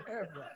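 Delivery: Everard shortened to two syllables, EV-rod; softened pronunciation. Shown as a demonstration. Man shows what he says instead, Everard cut to EV-rod. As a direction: drop the middle vowel of "Everard", saying EV-rod. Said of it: "So I say".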